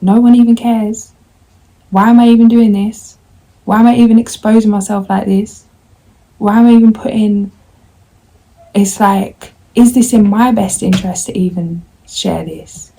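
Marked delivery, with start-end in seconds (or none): 0.0-11.3 louder, higher, venting at herself; pleading why to nobody, louder; exasperated outburst. Real, not acted. She vents her doubts to viewers, exasperated and louder.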